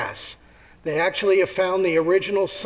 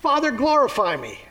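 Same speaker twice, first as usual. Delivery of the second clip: excited prayer; 6 semitones higher than usual. Acted. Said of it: "He gets so excited".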